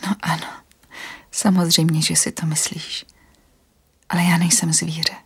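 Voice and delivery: gentle whisper to calm him; soothing whisper. Acted. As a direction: whisper reassurance, unhurried. Anastasia insists quietly.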